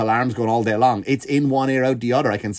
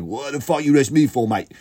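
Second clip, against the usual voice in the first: put-on English lad accent.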